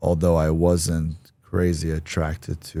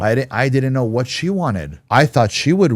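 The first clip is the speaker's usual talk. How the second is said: flustered; 6 semitones higher, 5 dB louder than usual. Real, not acted. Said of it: "defending himself to host".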